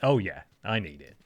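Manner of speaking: usual speaking voice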